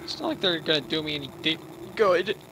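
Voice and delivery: talking through hiccups; hiccuping mid-word. Real, not acted. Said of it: "I'm getting the hiccups".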